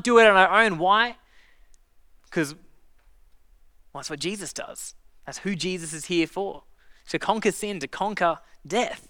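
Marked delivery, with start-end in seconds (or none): 2.3-6.6 hushed reveal. Real, not acted.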